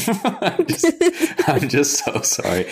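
hammed-up sobbing sorry; a put-on weepy apology; mock crying. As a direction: fake tearful apology, laughing through it. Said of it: "I'm crying".

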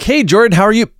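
tinny bullhorn voice, high and loud; through a megaphone. Retold or imitated. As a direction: imitate a car speaker blaring like a bullhorn. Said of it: "That was a great bullhorn impression".

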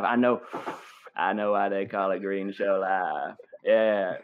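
Matthew McConaughey impression. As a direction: play a laid-back movie star coaxing a young host. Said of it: "debate yourself ... as Matthew McConaughey".

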